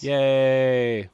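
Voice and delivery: high, loud little cheer. Real, not acted. Host cheering after naming the newest producer, loud high cheer. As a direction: celebrate the producers with a bright yay.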